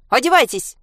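high, loud command; shout. Acted. Mother shouts at the girls to get dressed. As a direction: bark the order at them. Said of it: "крикнула мама Аньке с Женькой".

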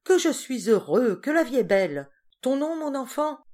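loud, high, gushing happiness; elated. A narrator's reading. Tipsy Henri gushing to the woman beside him, elated and loud. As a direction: pour out drunken joy. Drunk joy, to his neighbour.

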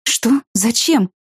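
usual speaking voice

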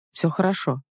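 mildly calm, understated reassurance; a touch of calm composure. A narrator's reading. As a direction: say it evenly, with quiet assurance. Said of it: "спокойно сказал Илья".

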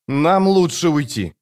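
high, slow youth; young man's voice. A narrator's reading. Brother, high.

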